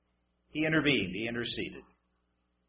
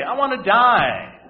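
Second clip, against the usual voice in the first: slow, laughing mock wail; mock despair laughing; 5 semitones higher, 7 dB louder, slower than usual. Preacher mocking the Israelites, slow laughing mock wail. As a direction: laugh through a fake wail.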